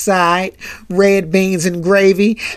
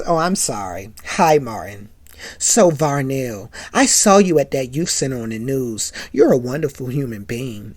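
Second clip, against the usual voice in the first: lady fan pours praise on Varnell; gushing lady caller; 5 semitones lower than usual. Acted. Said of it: "the lady says".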